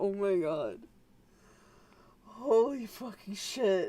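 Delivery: very slow, drawn-out, laughing through the words, crying laughing. Reacting to a funny clip on stream, crying with laughter. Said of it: "I'm crying laughing".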